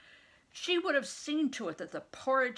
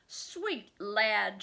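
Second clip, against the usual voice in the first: begging nurse; 5 dB louder than usual. Acted. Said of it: "she begged".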